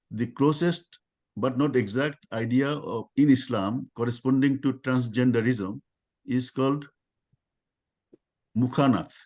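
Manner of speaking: measured reading with pauses between phrases; reading aloud. Real, not acted. Lecturer reading the closest Islamic term to listeners, measured read-aloud. Reads prepared text aloud.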